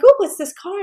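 high, loud burst of delight; excited. Retold or imitated. Imitating the woman at the barn spotting a gift card, excited. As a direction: imitate a thrilled, squealed question. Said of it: "she gets so excited".

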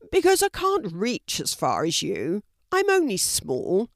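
lightly voiced small red panda, explaining; a hint of an animal character, pleading a little.

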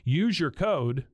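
slow booming announcer drawl; foghorn. Acted. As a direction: stretch it like a foghorn. Drawn-out ad read.

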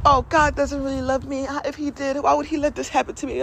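put-on aggrieved whine; mock angry complaint. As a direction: whine at God, play-acting. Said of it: "When we're being angry".

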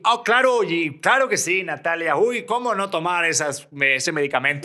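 voz de locutor de anuncio exagerada, más aguda; leyendo un anuncio. Retold or imitated. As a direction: imita a una conductora que lee una mención con entusiasmo fingido. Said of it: "lo que estaba diciendo". (anuncio leído con entusiasmo exagerado)

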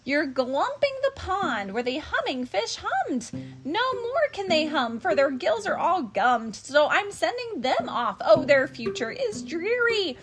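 Lorax voice. Acted. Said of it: "Lorax scolding the Onceler".

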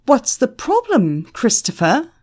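a contained shout, pointed and challenging; shouting in his ear. A narrator's reading. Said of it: "shouting into his ear".

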